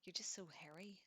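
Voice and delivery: a hint of a silly Capitol lilt, half whispered; silly Capitol accent. Prep woman teasing Katniss while waxing, faint Capitol accent. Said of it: "she pipes in her silly capital accent".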